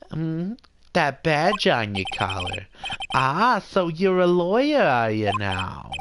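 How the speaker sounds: lightly voiced Jewish mother as lawyer; a hint of Jewish mother, self-important. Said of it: "I'll definitely do that voice a little bit".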